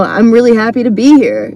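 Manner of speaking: sincere, understated gladness in a retelling; genuine. Retold or imitated. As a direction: say it honestly in your own voice. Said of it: "I said it in a genuine way".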